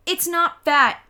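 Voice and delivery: loud high defensive shout. A narrator's reading. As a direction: yell it in her defence. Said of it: "I shouted".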